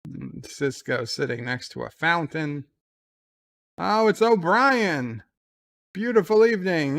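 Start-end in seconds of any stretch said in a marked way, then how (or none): 3.8-7.0 mock sly greeting. Changeling greeting Sisko.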